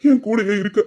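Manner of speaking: tearful half laugh; laughing through tears. Acted. Tearful thanks to brother. (சிரிப்பும் அழுகையும் கலந்த குரல்)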